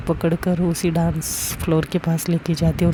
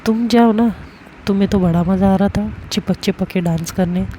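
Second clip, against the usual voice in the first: jealous retort; 3 dB louder than usual. Acted.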